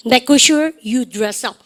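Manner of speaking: very slow, each word spaced for the class; drawn out so students can repeat after; very slow model phrase. Shown as a demonstration. Teacher modelling for class repetition, very slow. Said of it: "시작".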